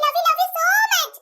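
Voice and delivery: very slow, drawn-out gush; gushing affection. Acted. Thanking fans by name, gushing and drawn out. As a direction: stretch it out lovingly.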